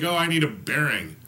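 mock customer voice. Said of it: "I'm like".

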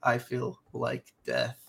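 sick, scratchy voice; talking through a sore throat. Real, not acted. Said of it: "scratchy voice and all".

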